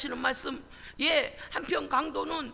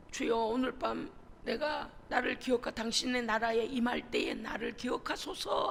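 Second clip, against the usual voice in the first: thief's quiet plea. Retold or imitated. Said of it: "하는".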